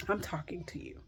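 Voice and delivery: soft unvoiced whisper, close to the mic. Real, not acted. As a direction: lean in and whisper it straight to them. Intimate direct address to viewer.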